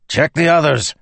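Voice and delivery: high, loud barked order; shout. A narrator's reading. Teft shouting orders at the bridgemen, high and loud. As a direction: shout it across the room at the men. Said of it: "he shouted".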